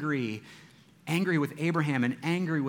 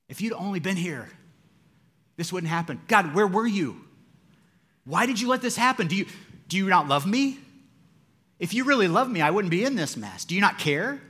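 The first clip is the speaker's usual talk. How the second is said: imitated complaint to God; 5 semitones higher, 5 dB louder than usual. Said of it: "do you ever talk to God like that".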